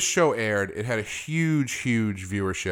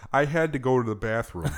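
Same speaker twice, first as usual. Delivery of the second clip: put-on Bronx accent; 2 semitones higher than usual. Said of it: "He's an Italian Bronx guy".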